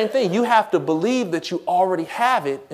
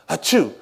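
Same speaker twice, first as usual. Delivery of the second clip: spoken mock achoo; fake sneeze.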